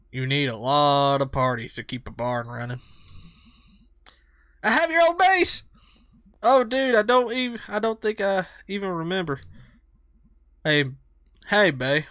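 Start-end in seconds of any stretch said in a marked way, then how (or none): 4.6-5.6 high, eager excited friend; hyper Greg voice. Acted. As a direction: bounce with excitement.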